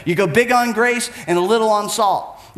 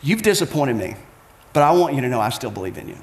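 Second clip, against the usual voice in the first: gentle correction; 7 semitones lower than usual. Retold or imitated. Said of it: "I'll say things like this".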